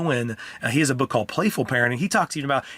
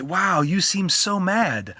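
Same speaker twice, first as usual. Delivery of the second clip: put-on slow, higher, sympathetic mirror to a child; mirroring empathy; 5 semitones higher, much slower than usual. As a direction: reflect the child's anger back gently and slowly. Dad mirroring child's anger.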